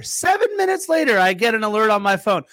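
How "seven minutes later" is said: much higher emphatic repeat. Shown as a demonstration. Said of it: "repeated for emphasis".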